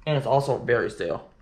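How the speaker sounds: talking while chewing gum. Real, not acted. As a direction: chew gum while speaking. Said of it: "Got gum in my mouth".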